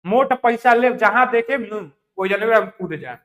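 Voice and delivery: mocking, unhurried telling of a folk saying; Bhojpuri proverb. Shown as a demonstration. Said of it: "Bhojpuri में सुनी लूंगी".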